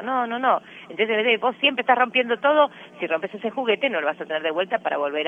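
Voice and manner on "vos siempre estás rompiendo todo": a lightly voiced scolding parent, louder and higher; a hint of a nagging parent; mock scolding parent. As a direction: tell off a child who keeps breaking things. Parent scolding child example.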